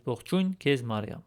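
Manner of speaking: Ողջույն քեզ Մարիամ said quickly; Armenian phrase. Shown as a demonstration. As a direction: model Hail Mary in Armenian. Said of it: "Hail Mary in Armenian".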